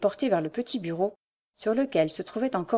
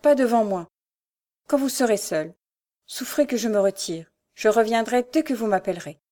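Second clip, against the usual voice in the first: pleading; 2 semitones higher than usual. Acted. Diane begging to leave before he reads, pleading. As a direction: implore him to let you leave. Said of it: "s'écria Diane suppliante".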